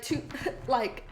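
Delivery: ordinary delivery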